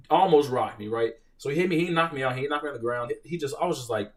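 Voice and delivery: usual speaking voice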